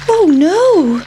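high squeaky worried pancake voice; a small food thing panicking; pancake's alarm. A narrator's reading. Pancake dreading being eaten, high and squeaky. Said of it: "thought the pancake".

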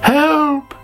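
high, loud cry for help; high panicked call. Acted. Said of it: "called Sammy".

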